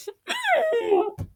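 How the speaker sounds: high wordless whine; frustrated whine. Real, not acted. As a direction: let out a high noise of frustration. Frustration after another failed try.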